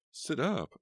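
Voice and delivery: high, loud call. A narrator's reading. Partygoer calling to the gorilla, high and loud. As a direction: call across the room to him. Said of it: "someone called to the gorilla".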